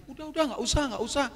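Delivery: suara tinggi menirukan manajer; buru-buru menepis rasa bersalah tamu; manajer menenangkan. Retold or imitated. Manajer menolak ganti rugi. (tiruan manajer yang menenangkan dengan nada tinggi)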